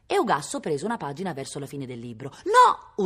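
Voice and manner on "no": grido acutissimo e fortissimo; urlo disperato. A narrator's reading. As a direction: urla come se gli strappassero il cuore. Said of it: "urlò Gian de Brughi". (urlo straziato del brigante)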